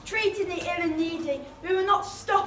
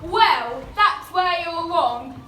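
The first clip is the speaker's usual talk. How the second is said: defiant hero; 6 dB louder, much slower than usual. Acted. Hero defies villain.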